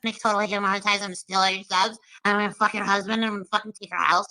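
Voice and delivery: lightly voiced mock Molly, trash-talking a rival; a hint of a crude, taunting streamer; Molly impression. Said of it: "How do you do impressions so good?".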